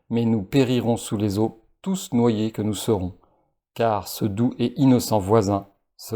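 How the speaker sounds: lu lentement, en conteur, avec emphase; lisez-le comme un conte qu'on révèle; lecture de texte posée. Acted. Lit à voix haute son propre texte. (le narrateur lit son texte aux spectateurs, ton de conteur)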